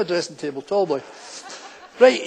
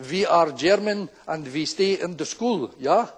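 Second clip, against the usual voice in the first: put-on slow, deliberate German accent; 3 semitones lower, 3 dB quieter, slower than usual. Cowboy-hatted lad pretending to be German, slow German accent. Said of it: "Oh, you're Germans".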